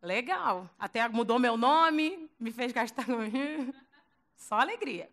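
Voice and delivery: grumbling sarcasm. Retold or imitated. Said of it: "Pedro tá assim".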